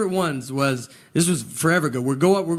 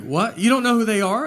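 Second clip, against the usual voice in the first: shocked disbelief; 5 semitones higher than usual. Retold or imitated. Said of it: "He's like".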